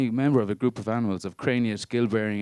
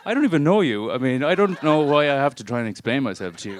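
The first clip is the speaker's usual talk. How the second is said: exasperated outburst; 5 semitones higher, 6 dB louder than usual. Real, not acted. Exasperated rant at stranger.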